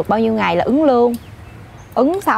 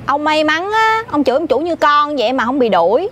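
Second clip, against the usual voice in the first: higher, projected repeat; raised, deliberate announcement; speaking up on request; 5 semitones higher than usual. Acted. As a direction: say it so the whole room hears. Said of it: "nói lớn là có đôi giùm".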